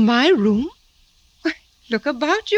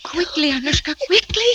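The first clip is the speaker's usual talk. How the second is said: higher, louder flustered call to the door; 10 semitones higher, 4 dB louder than usual. Acted. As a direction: stall Papa while hurrying the maid. Stalling father, hurrying maid.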